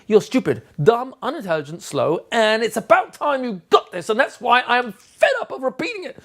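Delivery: mock exasperation. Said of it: "my body language is saying".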